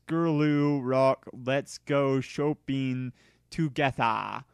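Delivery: slow, lightly voiced teen author; slow mock fan-fic author. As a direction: read the note as a sulky teen writer. Author's note read in character.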